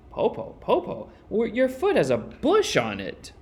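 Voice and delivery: put-on high, breathless whisper of a frightened girl; scared whisper. A narrator's reading. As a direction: whisper it high, afraid of what she touched. Frightened girl feels wolf tail.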